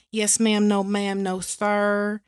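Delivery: polite Southern Belle drawl; Southern Belle accent. Acted. Co-host recalling her party character, Southern Belle accent. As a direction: play a Southern Belle minding her manners. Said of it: "real Southern Belle kind of accent".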